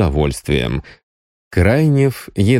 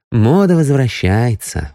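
slow, higher, pleasant remark; smiling; 5 semitones higher than usual. A narrator's reading. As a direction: say it with an audible smile. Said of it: "улыбнулась продавец".

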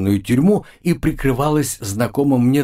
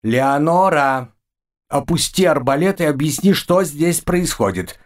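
stern command; 5 semitones higher than usual. Acted. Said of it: "приказал я".

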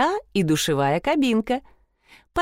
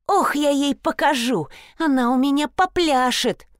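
enraged outburst; 8 semitones higher than usual. Acted. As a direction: explode with rage. Client explodes in rage.

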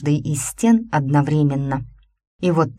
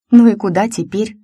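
put-on higher, louder bewildered girl; растерянная подруга; 6 semitones higher, 6 dB louder than usual. A narrator's reading. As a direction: ask it lost and puzzled. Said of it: "обескураженно спросила Ланка". (растерянно, высоким голосом)

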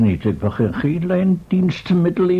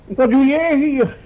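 much higher, louder and slow, caught off guard; startled question; 11 semitones higher, 4 dB louder than usual. Acted. Professor finding Beuk hidden there, startled. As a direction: blurt it out in astonishment.

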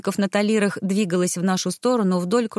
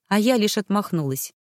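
plain reading voice

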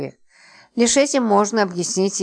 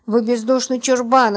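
indignant, raised-pitch retort; cutting retort; 4 semitones higher than usual. Acted. Липочка insulting unfeeling Роман, cutting and indignant. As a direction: cut them off with the insult. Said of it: "отрезала Липочка".

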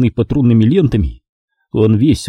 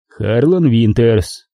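voice from underground; much slower than usual. Acted. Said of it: "звучал, как из подземелья".

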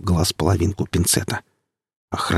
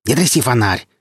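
a touch of irritated snapping; with malice; 4 semitones higher than usual. Acted. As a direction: spit it at him, mildly annoyed. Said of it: "сказал он со злобой".

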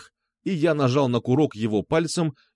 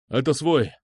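shout; 2 semitones higher than usual. Acted. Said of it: "крикнул Пётр".

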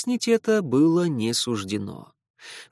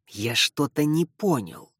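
hissing vampire. Acted. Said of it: "зашипел Лео".

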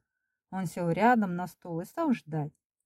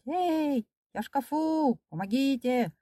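crying out; 7 semitones higher than usual. A narrator's reading. Frightened pupil locked in the cupboard, high calling. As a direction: call to be heard through a shut door. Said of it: "стал кричать".

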